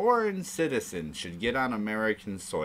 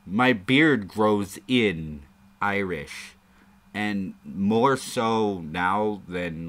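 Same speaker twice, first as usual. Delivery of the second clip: put-on Irish accent; 5 dB louder, much slower than usual. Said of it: "stop doing the Irish accent".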